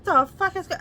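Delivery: high, loud startled cry; sudden fright as the high beams hit; shocked outburst. Retold or imitated. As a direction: blurt it out in alarm. Shocked reaction to the truck.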